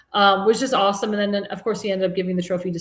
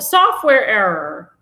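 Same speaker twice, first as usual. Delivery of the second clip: slow, louder, each word dragged out with scorn; mocking the official excuse, slowed and louder; sarcastic air quotes; 7 dB louder, much slower than usual. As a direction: say it like you don't believe a word.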